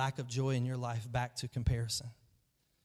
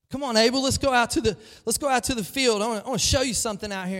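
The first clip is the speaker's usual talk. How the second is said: louder, higher, falsely cheerful call; Cain calling Abel; 8 semitones higher, 7 dB louder, faster than usual. Retold or imitated. Cain luring his brother Abel out to the field, loud and higher. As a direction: call out like a brother setting a trap.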